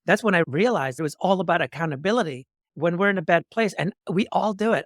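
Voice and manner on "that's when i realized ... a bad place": ordinary talk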